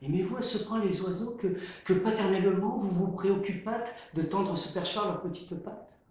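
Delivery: gracious. Acted.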